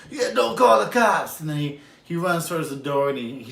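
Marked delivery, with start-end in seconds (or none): 0.1-1.4 higher, louder robber voice; hammed-up robber; robber's parting order. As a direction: warn him on the way out. Robber leaving the store.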